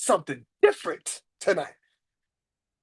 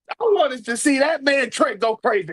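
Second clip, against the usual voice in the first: ordinary delivery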